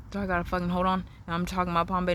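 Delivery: winded, short of breath. Real, not acted. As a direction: talk while catching your breath. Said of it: "now I'm getting out of breath".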